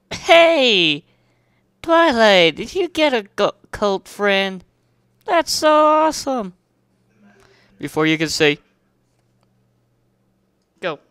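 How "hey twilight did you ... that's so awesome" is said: high, loud tomboy call; excited shout. Acted. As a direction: yell it across town, full of energy. Rainbow Dash voiced in the story.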